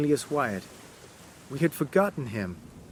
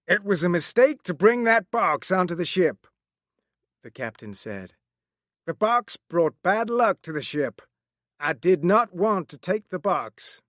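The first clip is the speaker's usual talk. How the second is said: lightly voiced captain, a bit higher; a hint of a sober sea captain; captain's voice; 3 semitones higher than usual. Captain tells the story.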